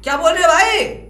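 high-pitched, disbelieving questions; incredulous. Real, not acted. Disbelief at being disowned.

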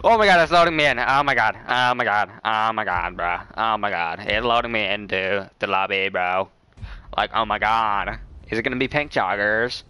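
lightly put-on camp voice, gushing; gay guy impression. Streamer waiting on pink joggers, stereotyped gay guy impression. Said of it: "Is that, like, the gay guy impression?".

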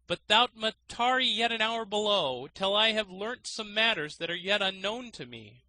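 high, loud, feigned reluctance; as if very unwilling. A narrator's reading. Trickster feigns reluctance to the student, high and loud. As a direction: pretend to grudge the favour. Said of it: "as if very unwilling".

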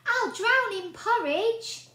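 high, loud, slow wail; panicked boy. A narrator's reading. Boy wailing as porridge floods out.

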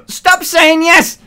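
high, slow emphatic yell; shouting slowly. Real, not acted. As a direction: drag each word out, shouting. Ranting at chat.

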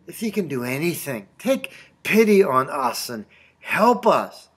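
a mildly weary, unsure appeal; desperate, tired plea. Retold or imitated. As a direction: plead without much confidence, lightly acted. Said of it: "he was desperate and tired".

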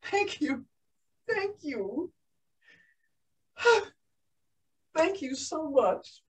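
soft, overwhelmed thank-you; emotional thanks. Acted. New pilot receiving her license, softly overcome with emotion. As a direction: say thanks quietly, with sighs between.

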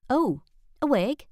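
a servant perking up at an idea; eager maid. A narrator's reading.

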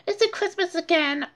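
high, fast groggy question; sleepy Buster. A narrator's reading. Buster waking up asking Arthur. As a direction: mumble it half asleep. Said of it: "Buster asked".

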